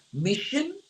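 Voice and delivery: imitating a video game voice saying mission accomplished; lightly voiced game narrator; game announcer. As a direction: deliver it like a game's mission-complete announcer. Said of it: "ele falava assim".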